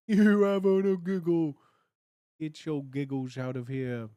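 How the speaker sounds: hammed-up English accent, laughing; bad English accent. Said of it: "nondescript bad English accents".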